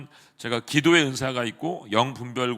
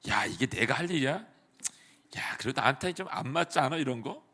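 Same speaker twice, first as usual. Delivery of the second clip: grumbling; 6 dB quieter than usual. Retold or imitated. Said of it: "이렇게 생각할 수 있어요".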